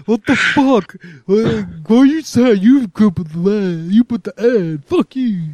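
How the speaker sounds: high, mocking voice of an angry texter; mock outraged reply. Mocking an angry texter who got the text. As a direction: ham up a baffled angry reply, pitched high. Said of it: "and everyone's like".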